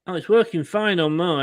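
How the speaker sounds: distorted, crackly mic sound; fuzz distortion. Real, not acted. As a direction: voice breaking up through a bad mic. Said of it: "You sound really distorted".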